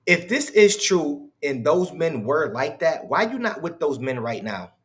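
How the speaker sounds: nasally mocking voice. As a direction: ask it through the nose. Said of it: "with this snorkily, sna-, nasally voice".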